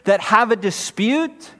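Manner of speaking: mock disbelief, drawing out the last taunt; sarcastic. Preacher voicing Paul rebuking self-styled wise believers, sarcastically. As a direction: needle them with feigned surprise. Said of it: "now sarcastically he's saying".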